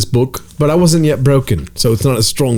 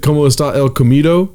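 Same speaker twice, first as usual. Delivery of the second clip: mock gringo Spanish. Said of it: "spoken like a white accent to me".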